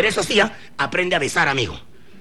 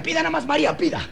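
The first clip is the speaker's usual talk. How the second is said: gallant man; 10 semitones higher than usual. Acted. Man voiced offering generously.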